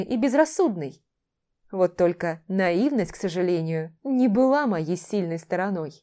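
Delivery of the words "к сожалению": ordinary delivery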